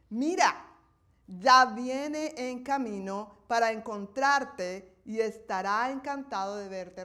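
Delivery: God settling the matter firmly; the Lord, annoyed. Acted. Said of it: "se enojó con Moisés y le dijo".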